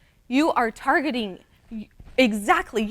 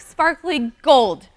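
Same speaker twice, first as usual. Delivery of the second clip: ordinary delivery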